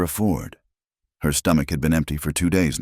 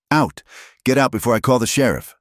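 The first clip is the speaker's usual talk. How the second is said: snapping shout; 8 semitones higher than usual. A narrator's reading. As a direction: bark her out the door. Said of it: "Muller snapped".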